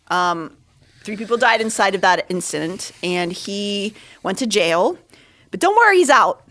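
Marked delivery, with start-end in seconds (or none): 5.5-6.4 sarcastic. Real, not acted. Sarcastic aside about released killer.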